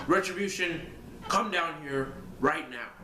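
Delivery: Vince McMahon voice. Retold or imitated. Wrestling fan imitating a promoter calling out a faction. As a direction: call them down like the boss himself. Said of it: "do the Vince McMahon voice".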